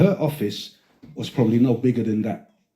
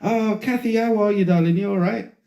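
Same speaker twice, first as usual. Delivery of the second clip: mock greeting; 8 semitones higher than usual. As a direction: greet a colleague in a higher voice. Acts his own greeting to Kathy.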